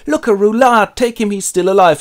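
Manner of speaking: hammed-up excited orc gang; mock orc voice. Orcs' lines voiced.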